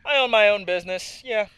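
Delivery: put-on French accent. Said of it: "Now it turned into a French voice".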